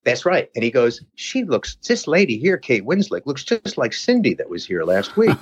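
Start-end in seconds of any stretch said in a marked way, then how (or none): 1.2-5.4 high, surprised barber voice; barber's voice. Retold or imitated. Barber noticing Kate in the paper, high and surprised. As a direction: pitch up to play the amazed barber.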